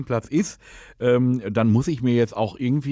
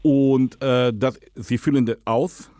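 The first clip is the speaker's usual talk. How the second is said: put-on Dutch accent, lisping; slower than usual. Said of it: "rede, lispeln und Holländisch".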